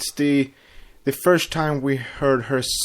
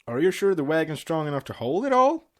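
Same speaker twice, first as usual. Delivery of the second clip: higher, worried questioning voice; reading a cartoon dialogue scene; acted pony quote; 5 semitones higher than usual. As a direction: nag gently, pitched up. Reading Applejack quizzing Big Mac.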